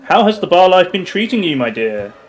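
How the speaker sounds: purring, teasing femme fatale; sultry lady voice. Acted. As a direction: play the flirty bar regular. Plays sultry bar lady character.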